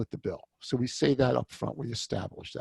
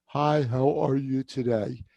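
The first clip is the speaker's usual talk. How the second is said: routine greeting; 3 dB louder than usual. Shown as a demonstration. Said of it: "Some people will ask the question".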